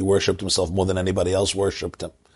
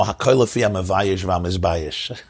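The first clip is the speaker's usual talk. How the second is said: laughing. Real, not acted. Teacher quoting the saying while still laughing at the joke. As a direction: quote chuckled out mid-laugh.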